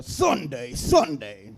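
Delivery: lightly voiced Duff Man; a hint of hyped mascot. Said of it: "Why do I sound like Duff Man".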